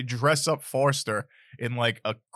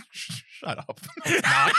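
mock exasperated shouting; scolding him through laughter; annoyed voice; slower than usual. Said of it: "I do that voice two more times".

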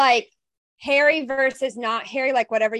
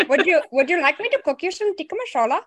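put-on Indian accent; 6 semitones higher than usual. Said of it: "I can do a very good Indian accent".

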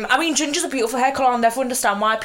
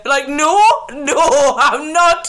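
laughing; 5 semitones higher, 7 dB louder, much slower than usual. Real, not acted. Laughing refusal.

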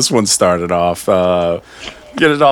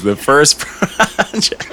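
after laughing hard; 7 semitones higher, much slower than usual. Real, not acted. Host laughing while introducing project.

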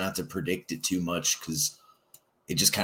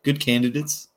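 said again higher and louder to be heard; louder repeat; 8 semitones higher, 6 dB louder than usual. Real, not acted. Co-host repeats for the host who missed it, louder. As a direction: raise the voice so the host catches it.

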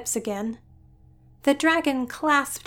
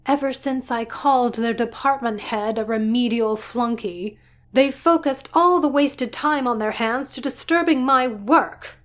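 irritated scientist; 3 semitones higher, 4 dB louder than usual. Acted. Doctor ranting at her sister about the IT department, exasperated. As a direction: vent every grievance at once.

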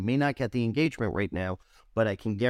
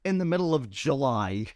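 higher, lightly voiced, happily oblivious; a light mock of a clueless friend; 9 semitones higher than usual. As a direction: keep him cheerfully committed. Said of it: "And he's like".

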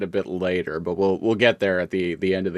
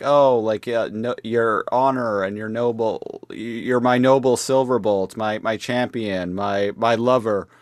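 swooning Black Arachnia; 2 semitones higher than usual. Retold or imitated.

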